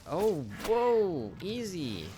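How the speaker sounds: high, loud startled whoa to a witch. Real, not acted. Player startled by the witch, high loud whoa. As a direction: rear back and call out easy. Calming a charging enemy.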